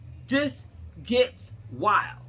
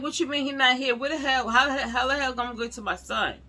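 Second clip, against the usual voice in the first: higher, sharp disbelief, pushing the words faster; indignant outburst; 3 semitones higher, faster than usual. Retold or imitated. Retelling her outburst at the receptionist, indignant and fast. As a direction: demand to know where he is, fast and indignant.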